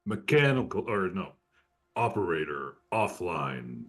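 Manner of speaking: flat robotic machine announcement; mechanical voice. Acted. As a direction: speak like a cold ship computer. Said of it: "a mechanical voice will echo out".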